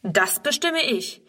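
slow and commanding; slow, firm authority. Acted. Director putting the girl in her place, slow and firm. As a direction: lay down the rule. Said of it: "erwidert Herr Keller".

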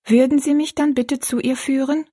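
a lightly voiced girl, hopeful; little girl. Rosalie asks the giant. (Rosalie, mit höherer Mädchenstimme)

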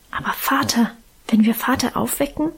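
fearful hushed whisper; worried the father might wake; anxious whisper. Acted. Girl whispering her fear to her mother, anxious hush. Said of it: "wisperte ich ängstlich".

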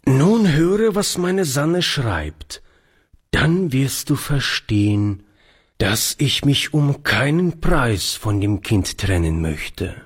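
lightly voiced old grandfather, insistent; a hint of a firm old man; old man, earnest. Grandfather insists he will never part with the child, earnest.

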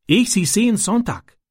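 höhere, langsame Stimme eines schüchternen ausländischen Jungen; Ram, ausländischer Junge. A narrator's reading. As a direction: ein kleiner Junge, der stockend in gebrochenem Deutsch erzählt. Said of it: "gab Ram Auskunft". (kindlich hoch und zögernd, Ram erzählt Francis von den Jungen)

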